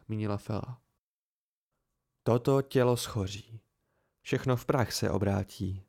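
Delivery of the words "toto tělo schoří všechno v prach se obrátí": low, solemn recital of a verse; dark recitation. Acted. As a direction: intone it gravely, a touch lower. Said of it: "zrecitoval Vilém temně". (temně recitováno)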